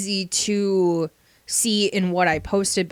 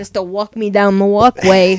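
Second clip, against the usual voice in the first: loud, phony put-on Bronx accent, talked up; 7 dB louder than usual. Joking about a podcast voice, doing a put-on bronx accent. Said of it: "sound like I'm from the Bronx".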